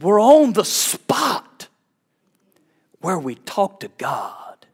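put-on small child voice. Daughter's voice, retold.

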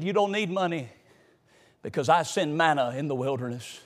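low, soft, unhurried divine reply; voice of God. Acted. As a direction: answer as the Lord, deep and calm. The Lord answers Anointed.

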